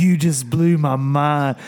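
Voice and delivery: slow, dragged mock amazement; repeated awestruck impression. Repeating the pro's line to his cohost, slow mock awe. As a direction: stretch every word in wonder. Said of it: "Just like that".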